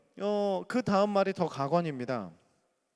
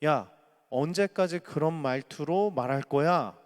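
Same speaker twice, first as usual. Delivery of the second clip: scolding; 5 dB louder than usual. Acted. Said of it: "이런 말을 건네는데요".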